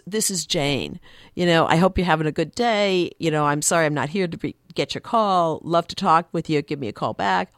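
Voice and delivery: easy, flowing outgoing greeting; friendly chatty voicemail. Retold or imitated. Woman's voicemail wishing callers a good day, friendly. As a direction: run the phrases on like a sociable voicemail. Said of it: "You leave a longer message".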